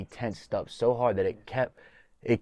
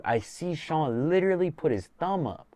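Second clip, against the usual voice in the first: high, excited disbelief; telling it in awe; pitched way up in amazement; amazed; 8 semitones higher than usual. Real, not acted. Retelling amazement at the thumbs up.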